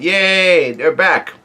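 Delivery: mild mock cheer with a drawn-out yay; retold happy yell. Nami greeting the returning crew, retold happy yell. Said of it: "Nami yells out".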